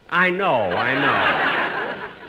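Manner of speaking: slow words through laughter; chuckling through it; laughing. Real, not acted. Laughing while answering Kitzel.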